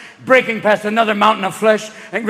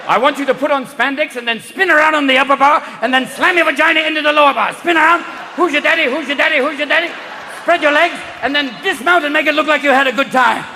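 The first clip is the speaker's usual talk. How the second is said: ranting German coach, louder and higher; shouting German coach; 6 semitones higher, 5 dB louder than usual. Acted. German inventor yelling his event idea at the girls. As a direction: bark out gymnastics orders like a manic German inventor. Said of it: "some German at a playground going".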